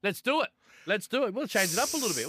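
high, eager kick-off; pumped up. Real, not acted. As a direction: fire up the show. Host kicks off the tips.

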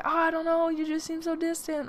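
high whiny mock sob voice; whiny crying boyfriend. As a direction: imitate the weepy ex. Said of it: "cried a lot and was like".

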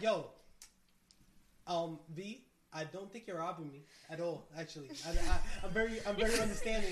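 low, soft, measured reply; retold calm, understated reassurance; mock placating. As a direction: gently talk her down, keeping your voice low.

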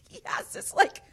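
high, loud, laughing through the words; laughing retelling. Real, not acted. Telling friends about the accent mix-up, laughing. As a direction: crack up while telling it.

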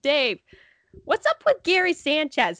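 a hint of an elderly buddy asking; imitated old men. Old scorekeeper quizzing friend, lightly imitated. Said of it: "It's just how they sounded".

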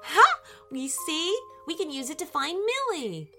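high, triumphant "Ha!" then eager; excited discovery. Acted. Harry shows the crocodile how to find Millie, excited. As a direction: pitch it up with pleased excitement.

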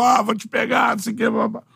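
ameaça de campo imitada, meio gritada; xingamento imitado. Retold or imitated. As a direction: imitando jogador xingando o adversário. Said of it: "xinga um ao outro em campo". (jogadores se xingando em campo, grito imitado)

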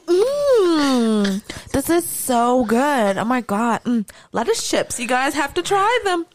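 high, sugary mock influencer; hammed-up tasting raptures. Mocking TikTok woman tasting.

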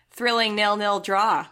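dry, slow sarcasm on thrilling; mock the dull game with slow sarcasm; sarcastic. Real, not acted. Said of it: "I detect a little bit of sarcasm in your voice".

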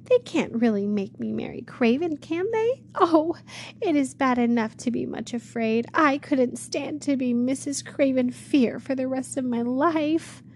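put-on a scared young woman dreading the marriage; frightened girl.

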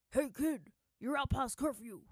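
loud, high soldier's yell; shouting soldier. Acted. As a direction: bark it out like a patrol guard catching a kid. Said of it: "shouted the soldier".

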